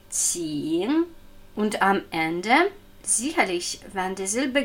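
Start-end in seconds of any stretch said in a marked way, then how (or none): 0.1-1.0 "Qing" with a long i, dipping then rising; clear I vowel. Shown as a demonstration. Teacher letting learners hear the vowel, drawn-out i in "Qing". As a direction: let the i ring out in "Qing". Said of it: "Sie können es sehr gut hören".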